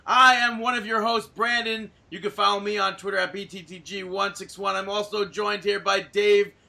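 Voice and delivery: booming circus ringmaster intro. Acted. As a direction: announce it like a big top show. Podcast intro, circus announcer style.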